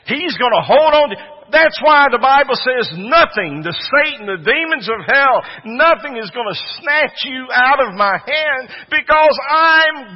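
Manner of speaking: loud, high, fervent preacher's shout; rising sermon climax, full voice; preaching at full force. Real, not acted. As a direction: roar it out to the congregation.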